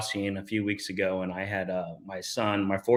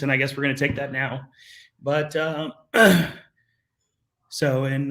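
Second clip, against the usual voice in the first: choking up; 3 semitones higher than usual. Real, not acted. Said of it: "Damn, the waterworks".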